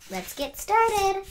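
high, loud, stretched-out words; rally the young viewers to begin; big show-host launch; excited kickoff. Acted.

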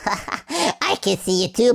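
slow, laughing tease; teasing a monster, laughing. Real, not acted. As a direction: chuckle through the words. Repeats it laughing, slower.

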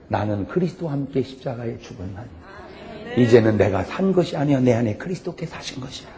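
quiet solemn Bible reading; scripture recitation. Acted. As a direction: recite it like a sacred verse.

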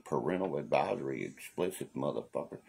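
announcer-style warning; mock explicit content warning; mock warning label. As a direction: read it like a parental advisory sticker. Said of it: "It says parental advisory".

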